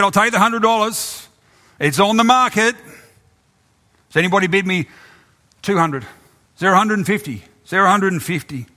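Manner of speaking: high, brisk auctioneer patter; auctioneer taking bids. Acted. Auctioneer takes the gardener's hundred dollars. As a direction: rattle off the bids to the room.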